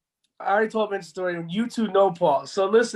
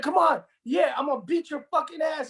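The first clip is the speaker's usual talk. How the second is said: tough-guy threat; 5 semitones higher than usual. Retold or imitated. Paul threatening, shout heard.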